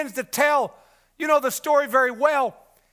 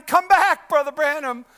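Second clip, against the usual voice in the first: much higher and louder, pleading; retold desperate cry; 8 semitones higher, 7 dB louder, slower than usual. Brother Roy waking from the dream, pleading shout. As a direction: beg him not to leave, crying out. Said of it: "In the dream I woke up crying".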